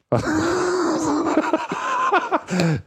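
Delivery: big burst of high laughter. Real, not acted.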